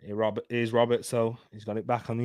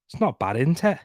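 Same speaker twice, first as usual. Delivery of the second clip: slightly higher put-on Burnley accent; 5 semitones higher than usual. Shown as a demonstration. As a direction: defend your dodgy Burnley accent. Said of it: "What's wrong with my Burnley one".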